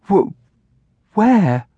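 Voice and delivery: high, stammered small question; tight-throated. A narrator's reading. Girl fearfully asks aunt where cousin lives, tight-throated. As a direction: ask as an anxious child. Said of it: "Amelia's throat grew tight".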